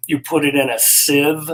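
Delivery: SIEVE stressed and set apart; emphasis on SIEVE. Real, not acted. Streamer telling viewers which strainer to use, stressing SIEVE. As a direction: lean firmly on the word "sieve". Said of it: "cannot emphasize the word sieve enough".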